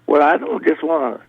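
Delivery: put-on a child excitedly insisting; little girl voice. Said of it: "the little girl said".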